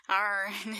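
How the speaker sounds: "Iron" as the accented way of saying ion. Shown as a demonstration. Viewer explaining their accent, ion pronounced like "Iron". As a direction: say "Iron" where ion is meant. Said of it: "it just sounds like iron".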